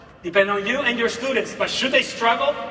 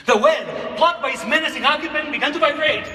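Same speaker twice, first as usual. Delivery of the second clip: amplified read-aloud; 2 semitones higher than usual. Shown as a demonstration. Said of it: "I need to amplify".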